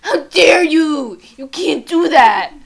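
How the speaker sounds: slow, loud, high mock outrage as Bella. Friend retelling Bella scolding Edward, hammed-up outrage. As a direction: ham up her shocked scolding. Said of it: "Bella was like".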